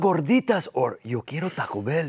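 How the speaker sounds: the famous dog voice, rattled off on request; Taco Bell Chihuahua. Shown as a demonstration. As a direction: fire off the catchphrase. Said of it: "give it to me real fast".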